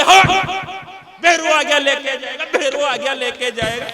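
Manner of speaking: a long drawn "हाँ।" then loud chanting of बेरू आ गया; mock possessed husband. Son-in-law fakes possession to outdo the mother-in-law, hammed-up loud chant. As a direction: ham up a spirit taking hold and chant the claim.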